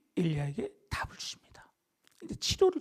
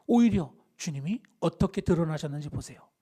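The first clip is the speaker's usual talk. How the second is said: ordinary talk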